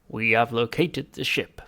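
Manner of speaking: slow, whispered alien report; Vogon voice. Acted. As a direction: report like a cold Vogon, slowly.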